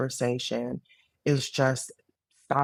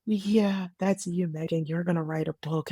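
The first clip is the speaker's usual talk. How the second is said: higher, amused imitation of a friend; lightly amused reassurance, pitched up; retold laughing reply; 4 semitones higher than usual. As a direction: say it as if just done laughing. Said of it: "And Emily just starts laughing".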